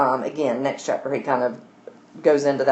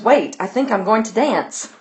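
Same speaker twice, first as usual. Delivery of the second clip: put-on a little girl bubbling over, giggling; voicing an excited child who can't stop laughing; excited giggle; 5 semitones higher than usual. Reading Adele's delight at her new dress with a giggle. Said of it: "So she's just so excited".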